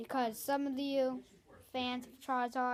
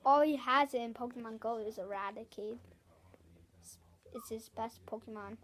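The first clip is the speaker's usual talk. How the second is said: whisper. Real, not acted. Teasing cousin about Raticate.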